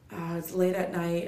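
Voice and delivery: stuffy, blocked-nose voice; talking through a stuffy nose. Real, not acted. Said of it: "And I sound stuffy".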